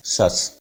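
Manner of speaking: "शस" as a short single syllable; ending said "shus". Shown as a demonstration. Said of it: "शस बोलते हैं". ("शस" एक छोटे अक्षर में)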